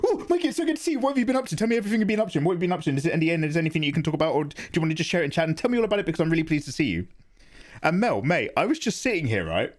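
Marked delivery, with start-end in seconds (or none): 0.1-7.1 high, gushing mock-sweet greeting; imitating Mel. Streamer imitating friend Mel's greeting, high and gushing. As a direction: gush like an overjoyed friend. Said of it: "Mel was like".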